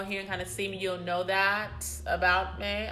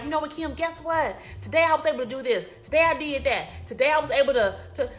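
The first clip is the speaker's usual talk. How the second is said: excited; 6 semitones higher, 5 dB louder, faster than usual. Retold or imitated. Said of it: "I wanna know, like".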